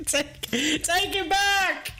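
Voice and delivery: laughing. Real, not acted. Streamer laughing at own slip.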